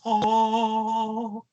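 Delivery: high put-on sigh of an "oh"; a mock seductive little exhale; imitating a cartoon bombshell's sigh; breathy glowing oh. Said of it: "And you would hear this".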